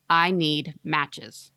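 drawn-out eerie monotone; slow, menacing child; very slow creepy girl. Acted. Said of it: "monotone and deeply".

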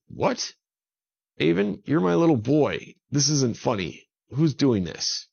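high, loud, alarmed father; upset disbelief. A narrator's reading. Dad refuses to believe the man is his son, alarmed. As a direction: protest as if it's a cruel prank.

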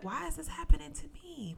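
high anguished question; pleading cry. Retold or imitated. Retold despairing self-talk.

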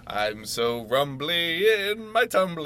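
a lightly voiced honey-loving bear; Winnie the Pooh voice. Quoting cuddly bear Xi.

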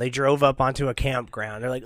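ordinary talk

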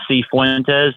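"C Fuentes" said as the letter C plus Fuentes; pronunciation demo. Shown as a demonstration. Guest teaching the host his last name, demonstrating "C Fuentes". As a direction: show "C Fuentes" as letter C, then Fuentes. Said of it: "put it together".

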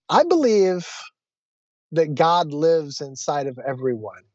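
measured declaration with a long pause; rooted conviction. Retold or imitated. Driver telling the passenger what they believe, grounded. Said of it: "kind of rooted in that".

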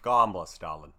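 slow, hammed-up showbiz drawl; mock Boston drawl. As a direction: drawl it like a talk-show host. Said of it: "What, what accent is that?".

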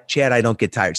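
low, unconvinced reading, imitated; acting out a reluctant, low-pitched echo; half-hearted repetition. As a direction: repeat it dutifully, without conviction. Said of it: "Say it like you mean it".

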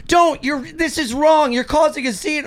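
high-pitched mock protest; protesting girlfriend. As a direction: imitate an upset girlfriend making a plea. Girlfriend protesting in a retold quarrel.

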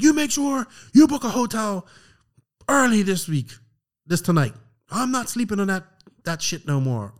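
high-pitched mock scolding that drops toward the end; retold angry demand. Angry friend demanding a hotel be booked, retold scolding. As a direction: imitate a fed-up friend laying down orders. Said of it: "he was so pissed off at me".

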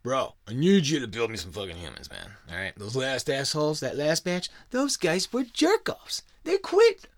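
hammed-up bro boss griping about lazy workers; Enlil's whiny boss voice. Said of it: "He goes".

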